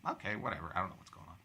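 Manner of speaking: low, very soft resigned aside; clueless shrug. Retold or imitated. Retold clueless reply at sign-up table.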